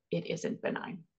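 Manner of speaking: whispered echo of the doctor's words; haunted whisper. Retold or imitated. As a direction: breathe it out like a memory you can't shake.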